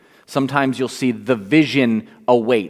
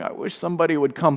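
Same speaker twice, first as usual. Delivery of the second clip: wistful; 3 semitones higher, 6 dB quieter, much faster than usual. Retold or imitated. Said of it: "me as a kid ... going".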